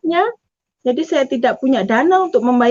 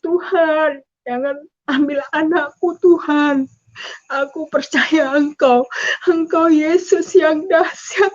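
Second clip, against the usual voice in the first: slow tearful plea; crying prayer; 2 semitones higher than usual. Retold or imitated. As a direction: beg God not to take the baby, weeping. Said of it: "Saya menangis". (ibu berdoa sambil menangis untuk anaknya)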